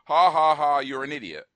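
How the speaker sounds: spoken ha-ha-ha, loud then dropping; Drax's forced mock laughter. Mocking Drax's forced reaction to Mantis, hammed-up fake laugh. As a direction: imitate an overdone, shoehorned laugh line. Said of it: "for Drax to go".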